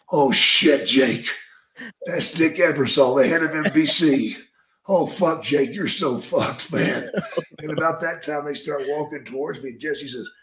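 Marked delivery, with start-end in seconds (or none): 0.1-7.1 alarmed exclamation. Retold or imitated. Jesse alarmed at Ebersol.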